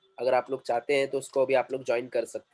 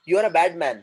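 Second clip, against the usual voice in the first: louder, punched-out example insult; loud accusation; 3 semitones higher, 6 dB louder, much slower than usual. Acted. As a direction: say it loudly to their face. Acted example of insulting someone directly. (ज़ोर से, सीधा आरोप)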